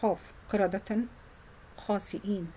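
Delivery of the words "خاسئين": "خاسئين" said slowly with a clean glottal stop, no r sound; clear hamza in khasi'in. Shown as a demonstration. Teacher drilling a student on the hamza, careful and slow. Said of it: "هنا زي خاسرين".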